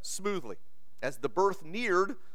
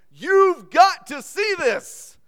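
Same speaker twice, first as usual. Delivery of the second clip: much higher and louder, slow excited cry; excited shout; 12 semitones higher, 11 dB louder, much slower than usual. A narrator's reading. Nurse pulling the man to the bedside, shouting excitedly. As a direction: burst out with urgent delight.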